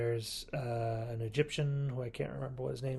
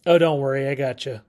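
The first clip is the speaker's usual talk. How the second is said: confident Sarah Jane; 10 dB louder, faster than usual. Retold or imitated. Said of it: "And she's like".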